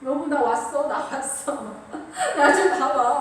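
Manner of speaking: hammed-up cutesy husband, breaking into a laugh; playful aegyo. Husband home from work wanting his wife's notice, playful aegyo. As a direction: plead for attention with mock cuteness. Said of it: "어울리지 않게 막 애교 떨면서".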